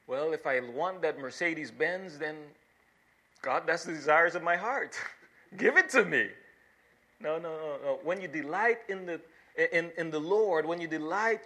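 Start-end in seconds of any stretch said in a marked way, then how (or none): 0.1-6.3 lightly voiced greedy prayer, laughing at the end; mocking greedy believer. Preacher mocks a believer demanding a Mercedes from God. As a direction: poke fun at a selfish prayer for a car. People misquote this saying.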